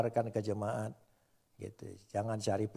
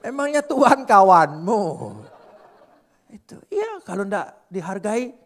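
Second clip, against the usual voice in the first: laughing; 7 semitones higher, 12 dB louder than usual. Real, not acted. Laughing jab at congregation.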